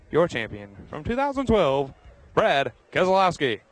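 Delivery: amateur race announcer build-up. Acted. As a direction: announce it with pauses, building to the driver's name. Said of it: "That's my best announcer voice".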